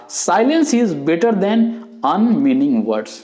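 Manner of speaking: drawn-out quotation voice; solemn quote. Retold or imitated. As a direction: recite the famous saying slowly, each word set apart. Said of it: "जो Pythagoras ने बोला था".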